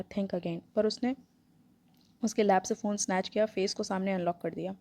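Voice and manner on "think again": slow threatening. Acted. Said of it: "slow threatening tone में बोला".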